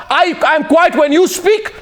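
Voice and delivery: slow, shouted, demanding to be heard; firm shout. Real, not acted. Anchor demanding silence, shouting. (धीमे, ज़ोर से डाँटते हुए)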